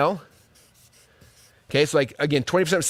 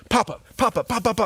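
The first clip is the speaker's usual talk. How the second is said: mock pop-up barrage; 5 semitones higher than usual. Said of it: "you'd be like".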